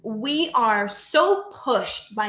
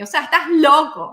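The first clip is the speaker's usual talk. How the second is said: playful Spanish aside; 5 semitones higher, 8 dB louder, faster than usual. Pretend. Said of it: "I'm doing so much Spanish today".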